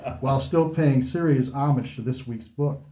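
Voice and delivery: lightly posh American host voice; a hint of a posh American. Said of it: "slip back into my posh American voice".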